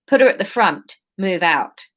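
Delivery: put-on London accent slipping into Australian; a touch of accidental Australian; unintended Australian accent. Leader ordering captives to move, accent gone slightly Australian. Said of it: "Why is this going Australian?".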